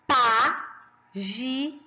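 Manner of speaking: "páginas" broken into three slow, separated syllables. Shown as a demonstration. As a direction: sound out "páginas" slowly, leaning on PÁ. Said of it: "Qual que é a mais forte?". ("páginas" devagar, separando cada sílaba)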